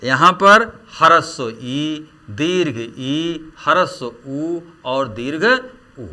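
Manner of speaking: ह्रस्व ई and दीर्घ ई said slowly, the long one drawn out; close vowel demo. Shown as a demonstration. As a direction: slowly set short against long. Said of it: "कौन कौन संवृत स्वर हैं". (ह्रस्व ई और दीर्घ ई को धीरे, फ़र्क़ के साथ बोलना)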